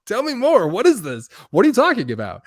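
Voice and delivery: very high, loud, keen curiosity; played-up wide-eyed interest; eagerly leaning in. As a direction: act out leaning in to befriend someone. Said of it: "just leaned into him".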